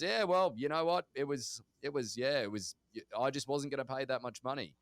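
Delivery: imitating an upbeat dad, starting high and loud then easing; a happy, unbothered losing bidder, lightly acted; really happy. Dad shrugging off the lost auction to his child, happy. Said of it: "He was really happy".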